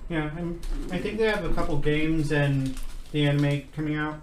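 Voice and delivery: talking while chewing food; words round a mouthful of food; mouth full. Real, not acted. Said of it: "Sorry for eating with food in my mouth".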